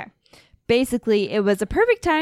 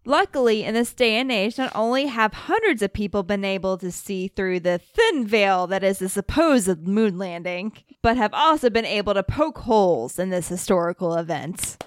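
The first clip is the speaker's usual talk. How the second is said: radio broadcaster voice. Acted. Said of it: "your nineteen sixties radio broadcaster voice".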